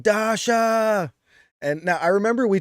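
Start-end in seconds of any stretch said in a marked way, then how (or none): 0.0-1.1 imitated scream, high and drawn out; high-pitched wrestler's yell, stretched out; Roderick Strong. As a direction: holler the name in a long, high mock scream. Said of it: "Roderick Strong screaming".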